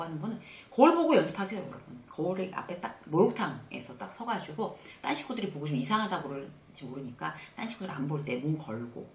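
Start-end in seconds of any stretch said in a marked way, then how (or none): none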